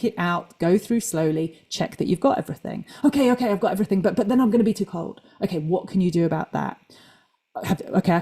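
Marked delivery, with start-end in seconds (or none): 3.0-5.2 higher, hurried mock fretting; acted inner worrier. Coach arguing with themself in their head, mock worried. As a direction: fret lightly, rushing into the objection. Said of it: "me kind of talking to myself in my head".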